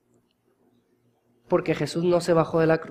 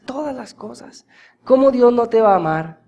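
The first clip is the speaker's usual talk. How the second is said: ordinary delivery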